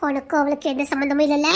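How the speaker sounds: deep, low mocking growl; deep demonic sneer. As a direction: sneer at his lie from below. Demon mocks his denial.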